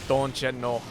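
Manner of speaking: put-on light Midwest accent. Streamer echoing a chatter's phrase, Midwest accent. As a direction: say it with a Midwestern lilt. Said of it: "in the accent I wanted".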